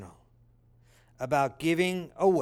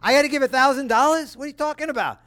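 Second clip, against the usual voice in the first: high, loud mock disbelief with a laugh; incredulous listener; 8 semitones higher, 5 dB louder, faster than usual. Listener asked for money, high disbelieving outburst. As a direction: play the shocked churchgoer who can't believe it. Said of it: "You would be like".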